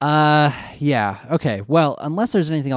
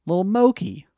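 cutesy voice; 6 semitones higher than usual. Acted. Fond mocking voice.

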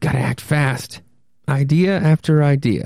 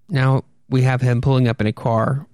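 usual speaking voice

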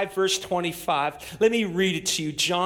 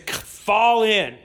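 barked military order, louder; sergeant's command; 4 dB louder than usual. Retold or imitated. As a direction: call the troops to fall in. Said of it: "they might command you".

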